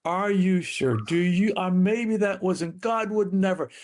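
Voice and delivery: hesitant second-guessing, pitched a little high; rationalizing. Acted. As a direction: voice the wavering doubters, trailing from one excuse to the next. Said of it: "They began to rationalize".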